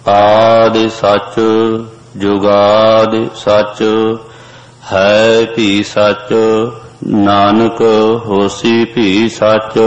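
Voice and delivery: slow, sung recitation of verse; scripture recitation. Acted. A teacher chanting Japji verse for the students. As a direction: chant the verse slowly and devoutly.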